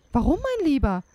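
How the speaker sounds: a hint of puzzled innocence; innocent wife. A narrator's reading. Wife answers the angry giant.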